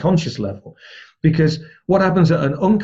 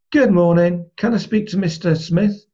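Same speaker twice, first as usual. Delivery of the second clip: matched greeting; 6 semitones higher than usual. Shown as a demonstration. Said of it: "build rapport with whoever answered".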